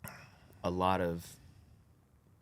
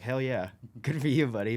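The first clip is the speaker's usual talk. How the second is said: higher, louder, delighted with a laugh; laughing cheer; 5 semitones higher, 6 dB louder than usual. Retold or imitated. Dad praising his son for taking the toy back, laughing and loud. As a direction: cheer the kid on while laughing.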